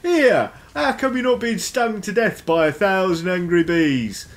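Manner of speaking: high, loud indignant mushroom voice; high, loud cranky fungus; grumpy mushroom. Acted. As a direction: squawk at them like an offended mushroom. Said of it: "all of these mushrooms be like".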